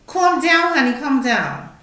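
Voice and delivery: high, soft mock calming voice; mock soothing flight attendant. Hammed-up soothing voice to an angry passenger. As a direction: coo it like a sugary calm-down lady. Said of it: "them bitches that be like".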